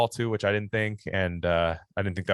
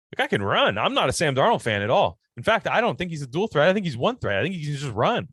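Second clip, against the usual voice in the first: hyped-up teasing; 5 semitones higher than usual. Real, not acted. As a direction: sell it big, then undercut the joke. Hyping Darnold, then mocking him.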